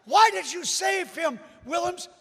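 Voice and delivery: acted-out loud accusing bystander; second crowd heckler. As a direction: demand an answer from across the crowd. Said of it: "Somebody else says".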